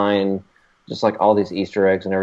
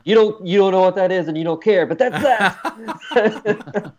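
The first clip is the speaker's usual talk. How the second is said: excited; 9 semitones higher, slower than usual. Retold or imitated. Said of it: "I was like, and to my wife".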